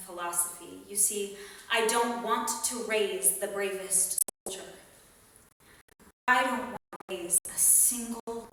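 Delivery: measured, earnest spoken word delivery; open mic poet. Acted. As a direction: recite it like a heartfelt poem. Reads poem at open mic.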